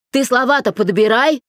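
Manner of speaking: a loud, harsh warning; the father cuts her off roughly; rough rebuke. A narrator's reading. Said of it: "грубо сказал ... Миша". (отец грубо одёргивает дочь)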